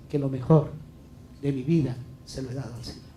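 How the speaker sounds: low, tender testimony; affectionate. Real, not acted. Preacher testifying he gave his life's best to the Lord, affectionately. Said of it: "con mucho cariño".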